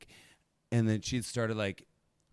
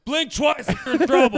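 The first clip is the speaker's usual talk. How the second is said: much higher and louder, a hammed-up worried stranger; mock concerned ally; 13 dB louder than usual. Mocking white strangers in small cities, high loud fake concern. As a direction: squeak it out like an overeager helper.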